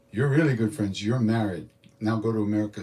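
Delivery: imitating a guru marrying off a couple on the spot; abrupt decree. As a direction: hand down the verdict with a punch. Guru abruptly declares them married.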